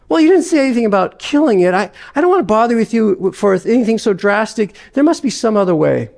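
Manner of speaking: a ghost scrambling for excuses; flustered ghost. Acted.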